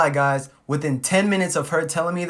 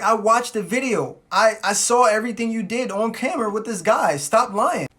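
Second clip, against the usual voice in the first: raised, higher confrontational voice; accusing; 5 semitones higher than usual. Retold or imitated. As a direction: confront them as if holding proof. Acted confrontation with lying girlfriend.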